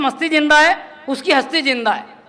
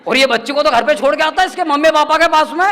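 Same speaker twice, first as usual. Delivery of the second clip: hammed-up scolding elder calling out; old man scolding him in the crowd, mild mock yell; retold old man's yell; 2 semitones higher, 3 dB louder than usual. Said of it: "जोर से चिल्लाया".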